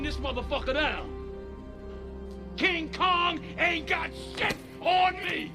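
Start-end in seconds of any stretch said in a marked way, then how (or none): 2.6-5.5 high, bellowed brag; defiant boast. Acted. Cop boasting to people walking away, bellowing. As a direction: holler it, pitch raised.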